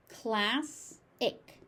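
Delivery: class-ic split into two syllables; class-ic said with a break in the middle. Shown as a demonstration.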